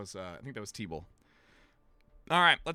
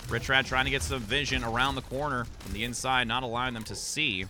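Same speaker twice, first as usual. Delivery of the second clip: esports play-by-play. Acted. Caster calling Lunar Colony fight to viewers, play-by-play. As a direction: commentate the fight as it unfolds. Live match commentary.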